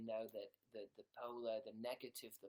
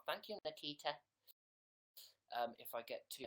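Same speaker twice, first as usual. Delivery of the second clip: normal talking voice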